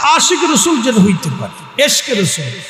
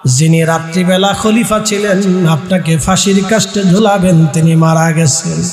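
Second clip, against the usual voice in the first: melodic preaching. Acted. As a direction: intone the climax with long-drawn endings. Preacher chants plea and good news. (সুর করে ওয়াজ)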